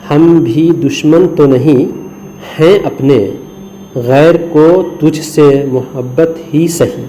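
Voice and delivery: slow, measured recital of a couplet; poem recital. Acted. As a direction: savour each line of the verse slowly. (آہستہ شعر پڑھنا)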